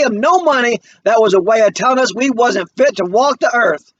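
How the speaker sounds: mother refusing shame, voice lifted; proud mother. Acted. Mama answers her son.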